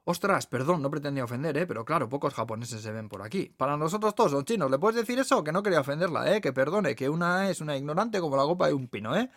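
lightly voiced waitress, a little flustered; a hint of an apologetic, chatty waitress. Waitress apologising to the Japanese guest, mildly flustered.

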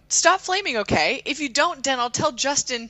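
mock outrage. Dramatic reading of bad fanfic.

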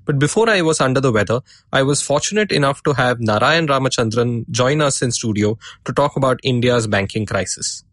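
sore throat and stuffy nose; talking through a head cold; blocked nose. Real, not acted. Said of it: "I'm recording this with a sore throat and a blocked nose".

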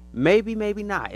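slow, high, loud maybe maybe not; slow teasing maybe. Real, not acted. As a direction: draw it out teasingly. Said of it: "slow drawn out maybe".

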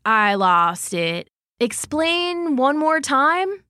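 lightly voiced excited bear, slow in places; a hint of a dopey bear thrilled then lost; Grumbles the bear. Grumbles praises Goldie then gets confused, mild excitement.

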